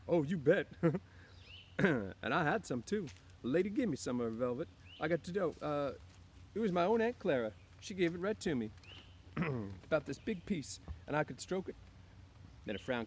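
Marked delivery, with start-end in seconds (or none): 0.1-1.8 high, loud delighted laugh; pleased chuckle. A narrator's reading. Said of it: "Lenny chuckled with pleasure". 1.8-11.8 high, loud eager simple man; excited Lenny. A narrator's reading. Lenny about Aunt Clara's velvet.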